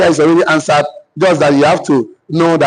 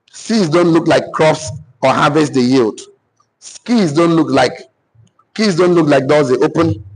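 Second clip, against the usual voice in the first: dictating. Real, not acted. Dictating statements for note-taking.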